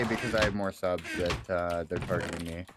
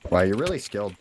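loud, lower-pitched mock praise; sarcastic; 4 semitones lower, 5 dB louder than usual. Real, not acted. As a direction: praise them with obvious sarcasm. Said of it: "You know that was, uh, s-, sarcasm".

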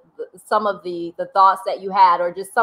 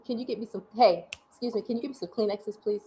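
holding back tears; 8 dB quieter, faster than usual. Real, not acted. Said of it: "I feel it coming".

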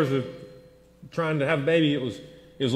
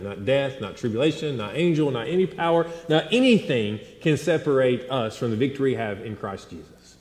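building preacher's list; 3 semitones higher than usual. Acted. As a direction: climb with every item toward the peak.

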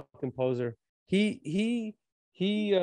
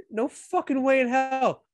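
higher, slow, disbelieving no way; incredulous outburst; 10 semitones higher, slower than usual. Real, not acted. Host scoffing at coach's speech, higher incredulous outburst. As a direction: scoff it out like you can't believe the nerve. Reacting to coach's recruiting claim.

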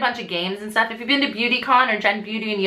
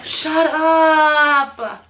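surprised; 6 semitones higher, 5 dB louder than usual. Real, not acted. Gasps at a gift.

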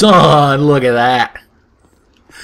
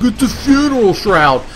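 voiced NPC; 7 semitones higher than usual. Voicing NPC explaining his bag.

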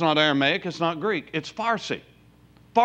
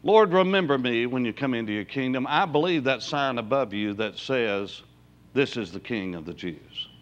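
repentant; 4 semitones lower than usual. Retold or imitated. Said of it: "in a repentant heart and voice".

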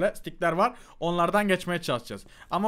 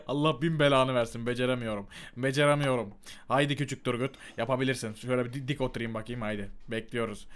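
low, soft and subdued; deflated self-talk; 8 semitones lower, 8 dB quieter than usual. Real, not acted. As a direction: talk quietly to yourself after failing. Başaramayınca sessizce yeniden deniyor. (alçak sesle, yılgın kendi kendine konuşma)

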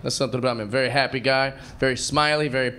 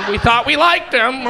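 a touch higher, slow, laughing mock crowd; slow hammed-up crowd reaction; crowd's dismay; 8 semitones higher, 4 dB louder than usual. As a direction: drawl it out like a disappointed crowd. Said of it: "I can feel all of you guys go".

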